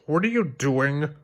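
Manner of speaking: high grumbling complaint; fed-up partner grumbling; grumbled. Acted. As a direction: Bob grumbling at Larry's skateboarding. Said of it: "grumbled Bob".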